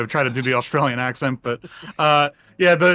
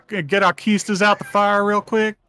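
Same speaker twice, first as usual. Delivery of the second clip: higher-pitched southern drawl; hammed-up backwoods Southern accent; redneck accent; 6 semitones higher, slower than usual. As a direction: plead as a put-on redneck militiaman. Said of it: "militia guys sound like rednecks".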